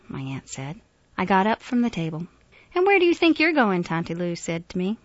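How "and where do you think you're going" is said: high, loud, scolding question; indignant, raised-voice challenge; stern challenge. A narrator's reading. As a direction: call him out sharply. Aunt challenges him as he leaves.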